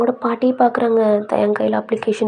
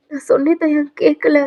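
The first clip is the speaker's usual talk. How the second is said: mildly tearful, higher-pitched telling; mock tearful; 5 semitones higher than usual. Aunt telling Dayang about grandmother's fall, mildly tearful. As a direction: act out a crying aunt, lightly. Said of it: "அப்படின்ட்டு அழுகுறாங்க".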